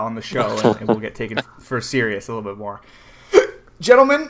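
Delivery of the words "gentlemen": grand announcer address. Pretend. Mock grand address to the panel.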